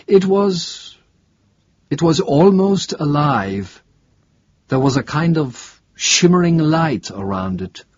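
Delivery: halting, unsure academic witness, lightly played; lightly voiced professor. Professor describing the craft to investigator, lightly voiced and hesitant. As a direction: grope lightly for the memory as the professor.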